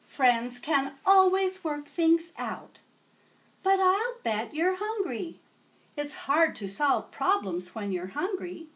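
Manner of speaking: put-on old teacher welcoming a new student; kindly teacher. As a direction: greet a new pupil warmly. Teacher advises kids.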